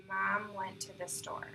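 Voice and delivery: gentle slide into Mom; easy onset. Shown as a demonstration. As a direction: ease into the first word. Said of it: "a slide put at the beginning of a phrase".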